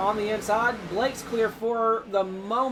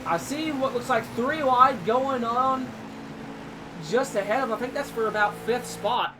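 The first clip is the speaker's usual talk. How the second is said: motorsport commentator; 2 semitones higher than usual. Acted. Live sim race play-by-play.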